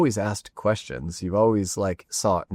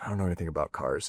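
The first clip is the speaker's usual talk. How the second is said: put-on mutter, much lower and quieter; 4 semitones lower, 8 dB quieter than usual. Retelling a driver's aside to frustrated mechanics, muttered under breath. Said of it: "kind of under his breath".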